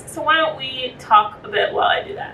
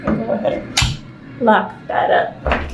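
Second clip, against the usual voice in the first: whispered aside; slower than usual. Real, not acted. Quiet aside locking window.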